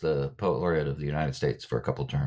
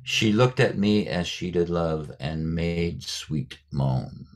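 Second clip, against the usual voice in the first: slow recitation; much slower than usual. Retold or imitated. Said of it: "and then says at one point".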